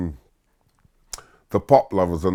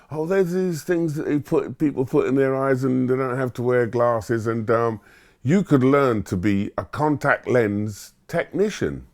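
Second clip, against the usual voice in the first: hesitant career master; 5 semitones higher than usual. Retold or imitated. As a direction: pause and hunt for words like a stuffy adviser. Career master explains lenses.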